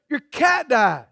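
quoting the blunt line back in reproach; mock-blunt echo with a long falling end; mimicked bluntness. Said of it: "You never so blunt".

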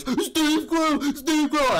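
high excited calling of the name; excited greeting. Retold or imitated. Dad greeting the scam artist at the door, high excited call. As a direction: shout the name way up, thrilled. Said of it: "your dad goes".

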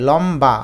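লম্বা as "lom-ba", clear b; b sounded after m. Shown as a demonstration. Teacher showing b-fola after m, লম্বা with clear b. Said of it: "এই বটা উচ্চারিত হবে".

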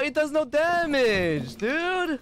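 high-pitched indignant disbelief; outraged disbelief. Real, not acted. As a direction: cry out in disbelief, pitch shooting up. Gamer outraged at weapon doing nothing.

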